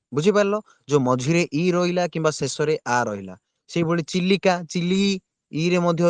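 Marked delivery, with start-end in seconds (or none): 4.7-5.0 ଚିଲି with ଲି held as a long "ee"; stretched i. Shown as a demonstration. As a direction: lengthen the end vowel of ଚିଲି. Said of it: "ଆମେ ଲି ଉଚ୍ଚାରଣ କରୁଛୁ". (ଚିଲିର "ଇ" କୁ ଲମ୍ବେଇ)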